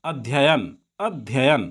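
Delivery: अध्ययन said as अध्-य-यन with both य sounded; teacher's memory-trick pronunciation; spelling pronunciation. Shown as a demonstration. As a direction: sound out every letter in अध्ययन. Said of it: "अध्ययन ऐसे उच्चारण करके मत पढ़िए".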